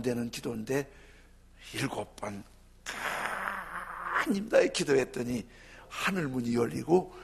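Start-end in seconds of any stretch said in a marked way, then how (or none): 2.8-4.5 drawn-out call. Shown as a demonstration. 드라마틱하게 길게 부르는 기도.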